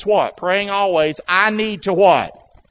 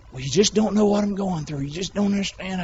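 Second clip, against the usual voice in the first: whiny complaint; 7 dB quieter than usual. Retold or imitated. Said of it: "Listen to me, friend".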